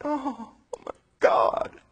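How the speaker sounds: breathless whispered "oh my God"; stunned whisper. Acted. Brothers stunned that the man is Joseph, whispering. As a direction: whisper it in shock.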